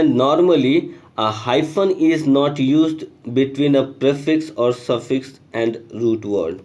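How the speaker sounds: slow, deliberate read of a textbook line; reading the rule aloud. Acted. Teacher reading the example sentence to students, slow and deliberate. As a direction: spell the sentence out for the class.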